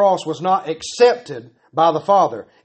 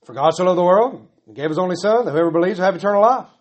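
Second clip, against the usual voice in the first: rattled off; faster than usual. Retold or imitated. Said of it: "A lot of people will say".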